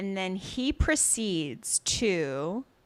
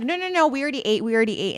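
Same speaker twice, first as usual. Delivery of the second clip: higher, louder mock protest; quick repeated brush-off in a raised pitch; hasty refusal, acted out; 4 semitones higher, 4 dB louder, much faster than usual. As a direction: act out a hurried refusal. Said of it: "And she's like".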